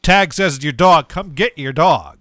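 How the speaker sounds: mildly exasperated official; pissy. Retold or imitated. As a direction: huff it like an annoyed town office worker. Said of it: "getting, like, a little, like, pissy".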